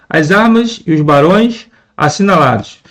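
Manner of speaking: verse line with pauses between phrases; measured verse reading. Shown as a demonstration. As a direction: read the verse in separated phrases. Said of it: "Se a gente for ler".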